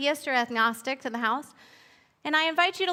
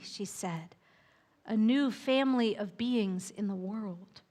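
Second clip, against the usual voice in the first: gentle read-aloud storyteller pacing; unhurried picture-book narration with lingering pauses; storybook narration. A narrator's reading. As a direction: read it like a bedtime tale to children.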